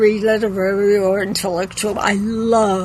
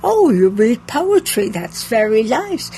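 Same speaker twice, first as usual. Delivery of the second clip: mildly patronizing politeness; condescending. Retold or imitated. Bookseller to a customer with poetry books, condescending. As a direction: humor them, faintly talking down. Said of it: "I say condescendingly".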